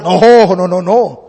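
low, falling string of no's; dismissive refusal. Acted. Farmer refuses the merchant's idea.

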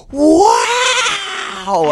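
high, loud imitated whoop; excited. Canvasser turning to her husband after the call, imitated excitement. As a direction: let out a soaring, thrilled cry. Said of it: "the tone of excitement in her voice".

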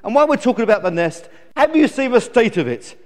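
put-on high, loud bratty baby chick; stroppy high-pitched grumbling; indignant complaining. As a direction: rant at your parents, demanding and put out. Newborn chick scolds its parents.

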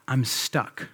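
soft, lightly imitated small child; little child's voice. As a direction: admit it quietly, like a little kid. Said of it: "I hear her little voice".

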